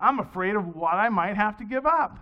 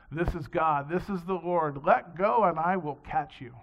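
lower, solemn voice from above; God calling down to the man on the cliff, lower and solemn; 5 semitones lower than usual. Acted. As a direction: speak as God, low and calm.

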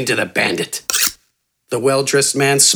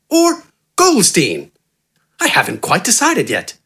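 higher, smooth, friendly and refined; eloquent gentleman; 7 semitones higher than usual. A narrator's reading. Well-dressed man flattering the giant, smooth refined charm. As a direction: purr it like an easy flowing charmer. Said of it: "eloquent, rapid speech".

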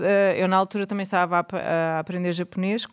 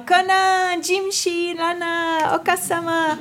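high-pitched anime voice calling out names; Japanese cartoon Conan; 9 semitones higher, slower than usual. Fan recalls the cartoon in Japanese, high mimicked anime cries. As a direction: imitate the original Japanese dub, pitched way up. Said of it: "que era em japonês, no original".

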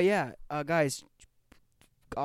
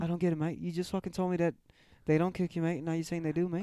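mock Aussie bloke, Australian accent; hammed-up Australian accent, tossing in mate; light put-on Australian accent; 3 semitones higher than usual. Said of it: "this is how fucking people in Australia talk".

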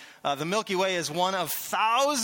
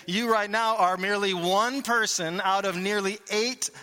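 a mildly louder, higher mock gloom-monger; gloomy pessimist; 4 semitones higher, 4 dB louder than usual. Pastor voices Mister Pouty Pants telling listeners they don't matter, hammed-up gloom. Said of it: "Mister Pouty Pants here would simply say".

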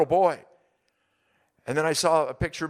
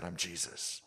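voice of Jesus; 8 semitones lower, 12 dB quieter, slower than usual. Retold or imitated. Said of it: "And he said".

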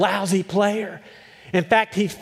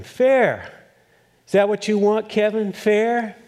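mocking retort; 5 semitones higher than usual. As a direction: throw the word back at him, scoffing. Coach retorts to complaining student.

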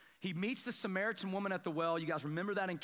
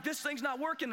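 raised, higher, exasperated call to a friend; frustrated complaint; 8 semitones higher than usual. Retold or imitated. Frustrated while fishing, complaining.

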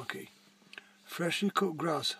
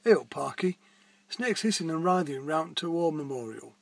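calling out; 5 dB louder than usual. Acted. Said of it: "called out Ursula".

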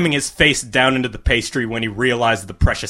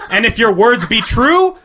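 higher, grand queenly voice; regal command; 9 semitones higher, 4 dB louder than usual. A narrator's reading. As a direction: speak down from the throne. Queen's royal decree.

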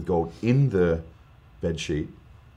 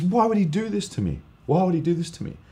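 a touch of tearful, much higher pleading; 10 semitones higher than usual. Retold or imitated. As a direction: mimic mum on the verge of tears. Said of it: "she's tearing up".

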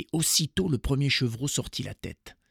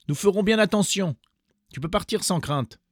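put-on high, loud children's voices; eager kids promising to be careful; little goats; 9 semitones higher, 4 dB louder than usual. A narrator's reading. Young goats reassuring their mother, high and eager.

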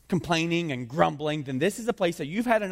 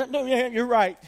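exasperated Moses; 9 semitones higher, 4 dB louder than usual. Acted. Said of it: "Moses is going".

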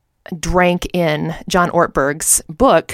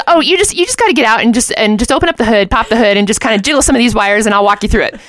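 breezy husband; 3 semitones higher, faster than usual. Retold or imitated.

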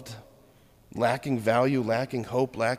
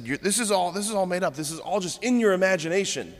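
accusing judges; 4 semitones higher, faster than usual. Retold or imitated. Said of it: "And they said".

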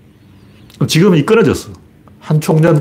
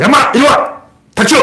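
호통; 12 semitones higher than usual. Shown as a demonstration. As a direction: bark orders to dominate the crowd. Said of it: "이렇게 호통을 쳐야지". (대중을 제압하는 호통)

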